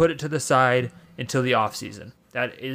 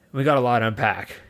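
shaking voice. Real, not acted. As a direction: voice trembling with anger. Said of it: "I'm literally shaking right now".

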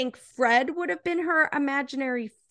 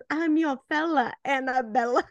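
mock suave line, pitched up; cheesy pick-up line. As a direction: imitate a corny flirt.

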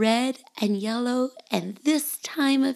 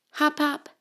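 bunny voice; 7 semitones higher than usual. Acted.

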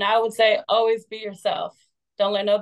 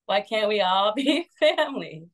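laughing. Real, not acted. Punchline of pitched storyline.

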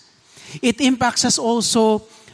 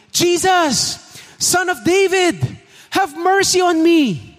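desperate shout; 9 semitones higher than usual. Retold or imitated. Blind beggar shouting to Jesus, desperate high cry. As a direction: call out to be heard over a crowd. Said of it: "He called out saying".

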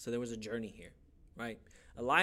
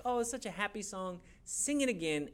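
mildly gushing, higher voice; retold blessed delight; Pastor Rosie; 5 semitones higher than usual. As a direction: lightly imitate a delighted pastor. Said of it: "is so blessed by this".

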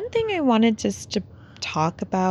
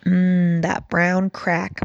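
just after a sip of coffee; savoring a sip of coffee; while sipping a drink; much slower than usual. Real, not acted. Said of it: "take a sip of my coffee".

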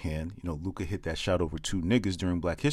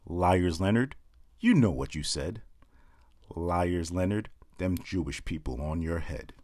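mock-solemn poem refrains; lightly performed comic poem; poem recital. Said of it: "I call it Liars Leonard".

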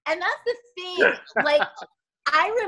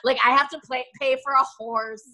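imitating a friend; 3 semitones lower than usual. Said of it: "and you were like".

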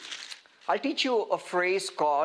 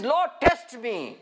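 mock bravado; 3 semitones higher, 4 dB louder, slower than usual. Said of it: "When I come under the law".

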